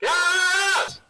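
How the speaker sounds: loud high yell stretched on the vowel. Shown as a demonstration. Coach yells "Yes!" with energy on the vowels. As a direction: belt "Yes!" out high and long. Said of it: "So it'll sound like this".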